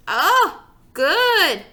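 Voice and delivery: put-on high, loud delighted little kid; excited little kid. Toddler praising father's omelet, high and delighted. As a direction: gush like a toddler tasting a treat.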